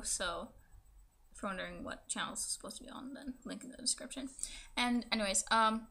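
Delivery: speaking with a fresh tongue piercing. Real, not acted. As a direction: talk around a swollen pierced tongue. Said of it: "this is gonna be my tongue piercing video".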